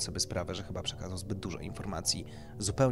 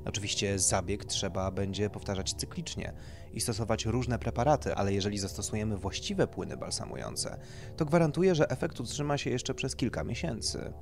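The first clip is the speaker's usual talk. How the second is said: lightly voiced doctor, raised and emphatic; doctor explaining procedure; 4 semitones higher, 5 dB louder than usual. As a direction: explain it like a consultant to a client.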